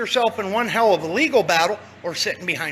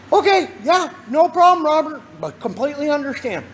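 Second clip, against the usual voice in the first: eager agreement; 5 semitones higher, 3 dB louder than usual. Pretend. Imagined caller agreeing eagerly.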